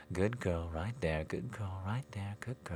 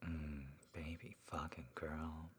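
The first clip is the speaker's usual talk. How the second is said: whispering; 11 dB quieter than usual. Acted. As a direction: hush it gently. Whispered aftercare.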